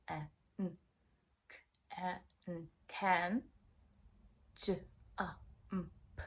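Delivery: letter sounds A, N, K, A, N, J, A, M, P said one by one; each letter sound spoken separately; sounding out words. Shown as a demonstration. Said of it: "they can sound that out".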